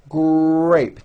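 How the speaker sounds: grape with lips forward first and a strong R; strong R blend. Shown as a demonstration. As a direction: lead into grape with rounded lips. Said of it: "notice how my mouth comes forward".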